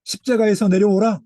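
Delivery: mocking jeer. Mocking officials jeering at Jesus, loud and taunting. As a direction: taunt the man on the cross. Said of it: "비웃어 가로되".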